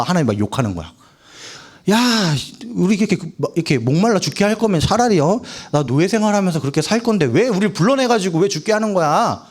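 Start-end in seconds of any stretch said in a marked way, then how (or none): 1.9-9.4 acted-out grumbling of a thirsty crowd; mild resentful complaint. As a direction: protest to a leader with a touch of reproach. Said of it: "막 이렇게 원망을 해서".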